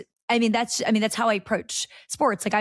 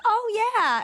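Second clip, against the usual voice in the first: 1 mock unimpressed; 12 semitones higher than usual. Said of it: "They're like".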